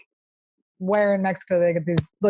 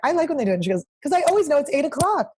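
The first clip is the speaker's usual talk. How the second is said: light mock sweet voice; 6 semitones higher, faster than usual. Imitating friend's sweet reply.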